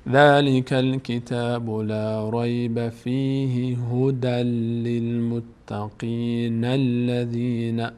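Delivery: very slow chanted recitation; Quran recitation. Shown as a demonstration. Teacher reciting the verse on air, slow chant. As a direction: intone each word slowly.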